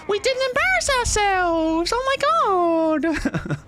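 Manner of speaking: very high, loud, breaking into laughter; ecstatic shriek. Real, not acted. Streamer to chat after escaping, ecstatic laughing shriek. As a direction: shriek with relieved joy.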